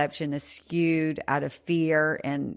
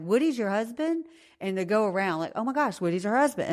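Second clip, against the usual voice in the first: excited fans; 5 semitones higher, faster than usual. Retold or imitated. Firemen excited about host.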